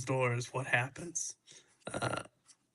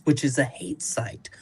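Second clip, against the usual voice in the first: whispered. Real, not acted. Reading quote aside.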